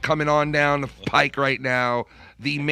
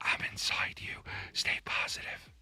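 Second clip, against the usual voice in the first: mock whisper, quieter. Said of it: "him whispering that into your ear".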